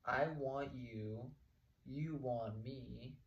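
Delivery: mock date speech. Acting out a guy on a date.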